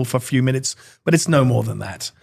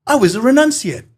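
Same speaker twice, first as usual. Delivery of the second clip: higher-pitched surfer impression; old surfer; 10 semitones higher, 3 dB louder than usual. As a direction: announce it as the old surfer dude. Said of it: "looks like an old surfer".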